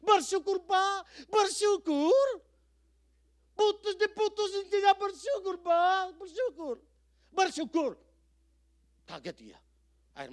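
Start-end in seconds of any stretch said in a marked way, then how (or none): 0.0-7.9 higher and much louder, outraged disbelief; incredulous protest. Retold or imitated. Caller protesting to the pastor, loud incredulous disbelief. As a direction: throw the word back in disbelief. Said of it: "caller's incredulous protest".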